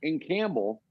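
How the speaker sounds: high, incredulous disbelief; amazed disbelief. Retold or imitated. Retelling his shock to the hosts, high amazed disbelief. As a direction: voice jumps up in stunned disbelief. Disbelief at Charlie knowing the bar.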